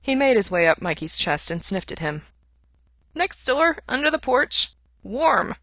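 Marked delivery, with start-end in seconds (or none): 3.1-5.5 much higher small dog voice; a simple happy little dog; small dog explaining where it hid. A narrator's reading. Dog Tintin answers.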